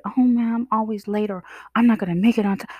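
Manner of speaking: mock the worried voice in your head; whiny little worried self-talk; self-doubting inner voice. Voicing a self-critical inner worrier.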